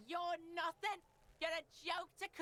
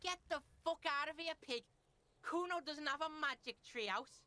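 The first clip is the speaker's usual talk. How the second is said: a lightly voiced rude street kid; brash kid Kuno; 3 dB louder than usual. Rude kid sneering at the detective, lightly voiced. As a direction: play the foul-mouthed kid, sneering.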